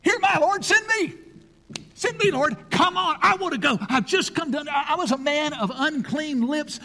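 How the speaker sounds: high, loud, eager pleading; eager Isaiah. Acted. Isaiah begging God to send him, high and eager. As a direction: beg to be sent, bursting with eagerness. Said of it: "Isaiah says".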